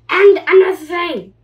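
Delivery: high, loud indignant burst; pigeon rant. Acted. Pigeon ranting at the duckling, high and loud. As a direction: launch into the next complaint.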